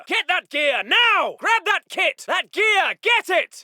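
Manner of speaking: high, insistent commands; urgent shouted order. Acted. Officer ordering men to grab the kit, shouting. Officer demands gear picked up.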